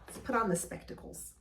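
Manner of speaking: breathy whisper to herself while putting glasses on; whispered aside. Real, not acted. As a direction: murmur it under your breath, just to yourself.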